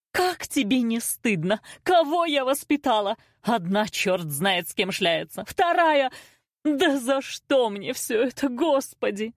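high, drawn-out exasperation; lamenting mother. A narrator's reading. Mother laments how her daughters turned out, exasperated. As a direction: wail it out, appealing to heaven.

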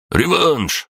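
high, barked demand; the orange mokosh slams the table demanding a rematch. A narrator's reading. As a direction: snap out the challenge. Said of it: "рявкнул оранжевый".

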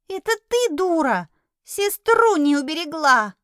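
high, loud accusing snap; angry retort. Acted. The girl snaps angrily back at the heroine. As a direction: throw the blame back.

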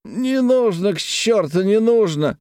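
put-on high eager cry of a drunk merchant; zealous outburst. A narrator's reading. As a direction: fling it out with drunken zeal. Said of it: "рьяно подхватывал Галушкин".

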